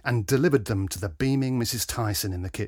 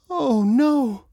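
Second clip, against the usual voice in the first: much higher, louder cry of dismay; shocked gasp; 12 semitones higher, 4 dB louder than usual. A narrator's reading. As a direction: gasp it out as her face falls. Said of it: "she gasped".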